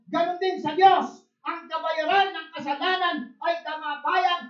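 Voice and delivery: loud, high, driving sermon voice; full-force pulpit preaching; fiery preaching. Acted. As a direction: preach it out to the whole congregation. Preaching on wages of sin.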